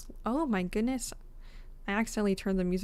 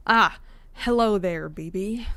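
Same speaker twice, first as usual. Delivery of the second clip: put-on Southern accent; 6 dB louder than usual. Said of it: "I forgot he was Southern".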